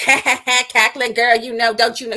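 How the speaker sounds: hammed-up parody of her cackle and slang; mocking imitation. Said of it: "She puts on a fake ghetto accent".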